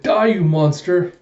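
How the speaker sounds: hammed-up villain-slaying shout; attacker's cry. Gunman attacks Yor.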